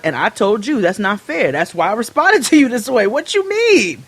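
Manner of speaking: indignant. Retold or imitated. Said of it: "I was like".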